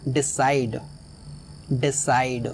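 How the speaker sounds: "डिसाइड" with the weight on "साइड"; light "डि", stressed "साइड" in "डिसाइड"; stress on second syllable. Shown as a demonstration. Teacher models "डिसाइड" twice, stress on "साइड". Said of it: "CID वाले portion पर".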